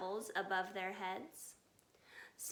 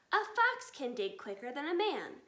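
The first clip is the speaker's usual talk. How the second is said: louder, eager shout; 2 semitones higher, 5 dB louder than usual. Acted. Fox father shouting to family while digging. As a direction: call it out as he starts digging. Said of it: "shouted Mister Fox".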